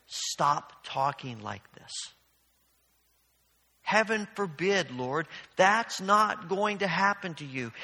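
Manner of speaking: drawn-out, mild plea to stop; pleading rebuke. Retold or imitated. Peter pulls Jesus aside and slowly, earnestly protests. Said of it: "Peter pulls Jesus aside and says".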